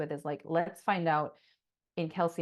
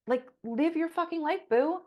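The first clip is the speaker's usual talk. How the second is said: cheer; 10 semitones higher, 7 dB louder than usual. Acted. Cheering listener on.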